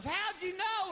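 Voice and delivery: high-pitched amazed question; mock amazement, pitch jumped up; astonished dog owner. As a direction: ask it as a gullible, amazed owner. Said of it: "the guy goes".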